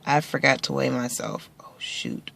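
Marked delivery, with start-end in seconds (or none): 1.6-2.3 breathy whispered oh shoot; whispered aside. Real, not acted. To viewers, a whispered annoyed aside. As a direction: mutter it under your breath. Forgot to weigh, muttered aside.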